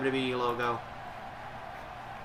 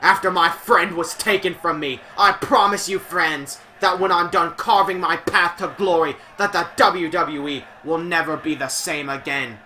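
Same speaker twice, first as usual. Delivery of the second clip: put-on higher, louder threatening Scottish accent; menacing bad Scottish promo; 4 semitones higher, 5 dB louder than usual. Streamer reading a Drew McIntyre threat in a bad Scottish accent. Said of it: "terrible Scottish accent".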